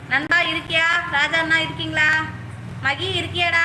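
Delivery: loud, high call to friends. Real, not acted. Streamer checking which friends are still there, shouting. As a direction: holler for each one in turn. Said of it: "ஐயோ, இப்படி கத்த விட்டாங்களே".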